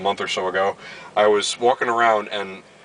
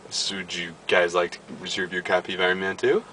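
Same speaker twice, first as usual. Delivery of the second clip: imitating clerk; 3 semitones lower, 4 dB quieter than usual. Imitating the clerk's sales pitch.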